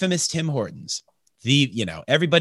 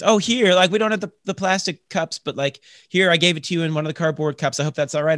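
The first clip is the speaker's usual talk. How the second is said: mock eager barista; 4 semitones higher than usual. Barista voiced in retold story.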